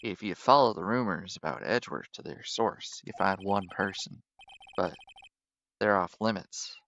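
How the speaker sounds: a lightly voiced old-timer lawman; cowboy detective voice.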